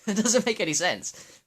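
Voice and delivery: high, loud and slow through real laughter; laughing. Real, not acted. Vlogger laughing at how he has changed, laughing. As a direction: laugh out the words in disbelief.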